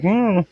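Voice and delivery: high-pitched "mm"; irritating tone hum. Shown as a demonstration. Showing the pitch of voices hard to listen to, high mock hum. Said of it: "the tone is just kinda like".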